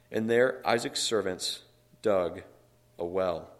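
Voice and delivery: emphatic, measured reading aloud; scripture reading. A narrator's reading. Preacher reading scripture to the congregation, emphatic and measured. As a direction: read the verse out, weighting key words.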